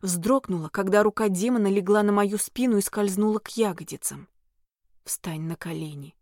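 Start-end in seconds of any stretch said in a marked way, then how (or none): 5.0-6.1 low whispered command; demonic whisper. A narrator's reading. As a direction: whisper the order firmly. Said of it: "Велел он".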